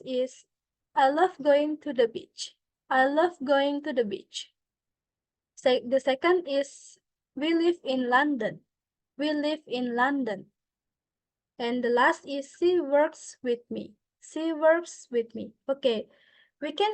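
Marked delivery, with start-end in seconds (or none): 0.9-4.5 "I love going to the beach" falling at the end; falling intonation. Shown as a demonstration. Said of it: "falling intonations". 7.3-10.5 "We live in London" as a statement with a falling end; falling intonation. Shown as a demonstration. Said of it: "falling intonations". 12.5-15.6 "She works with me" falling to the end; falling intonation. Shown as a demonstration. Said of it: "falling intonations".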